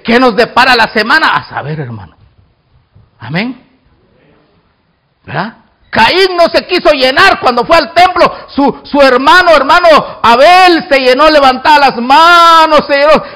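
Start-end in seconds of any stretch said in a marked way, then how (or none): 5.9-13.2 emphatic sermon storytelling; forceful preaching. Real, not acted. Preacher telling of Cain and Abel at temple, forceful. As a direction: preach the story with full energy.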